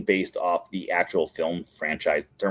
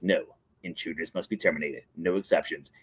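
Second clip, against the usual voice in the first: termite enforcer; 5 semitones lower, 7 dB quieter than usual. Retold or imitated. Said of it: "And then he goes".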